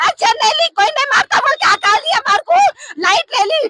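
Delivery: high, anguished shouting; outraged protest. Real, not acted. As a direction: shout the grievance, pitched high. Relative protests police sending them away. (आक्रोश में ऊँची आवाज़ से चिल्लाते हुए)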